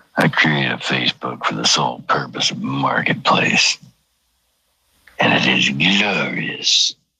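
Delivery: very low, deep, dropped put-on voice. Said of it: "when you're doing a low voice".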